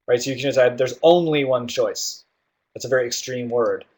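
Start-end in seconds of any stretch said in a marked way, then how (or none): 0.8-2.3 slow, drawn-out stress on "only"; emphatic. Shown as a demonstration. Teacher repeating the example of emphatic tone, emphatic. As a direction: lean firmly on "only", slowly. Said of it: "It's emphatic and pleading".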